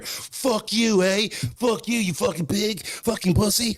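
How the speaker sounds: high, sing-song Canadian heckling with an eh; mock Canadian cussing. Canadian friends cussing out the cops, high mocking heckle. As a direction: taunt the cops in a put-on Canadian lilt.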